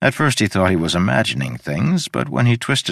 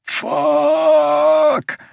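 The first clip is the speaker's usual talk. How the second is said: sharp hissed curse, much higher; 4 dB louder than usual. A narrator's reading. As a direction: spit the curse out through teeth. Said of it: "hissed the word".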